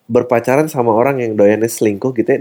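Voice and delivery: ordinary talk, nothing marked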